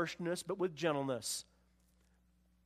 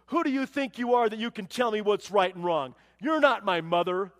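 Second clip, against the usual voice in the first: defiant retort; 7 dB louder than usual. Retold or imitated. Defiant teen talks back.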